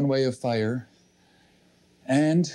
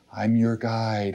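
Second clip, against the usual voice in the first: inner voice; 5 semitones lower, slower than usual. Acted. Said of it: "There's one voice saying".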